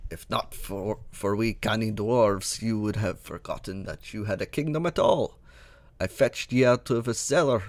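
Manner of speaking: a loose, half-Scottish dwarf voice; a gamer's own voice stretching toward a Scottish dwarf; attempted Scottish dwarf. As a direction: read the old dwarf with a try at a burr. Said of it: "I'm gonna try reading this in a me voice".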